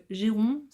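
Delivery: "Géron" read slowly and carefully in French; unsure name reading. Real, not acted. Reading an author's name aloud to viewers, "Géron" said slowly and unsure. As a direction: sound out "Géron" syllable by syllable. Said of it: "ça se prononce probablement pas du tout comme ça".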